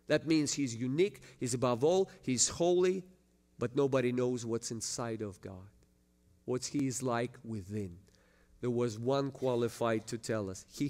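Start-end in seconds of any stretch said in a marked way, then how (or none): none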